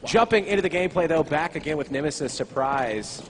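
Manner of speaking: loud, high play-by-play launch; hype caster. Acted. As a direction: kick off the gameplay with a burst.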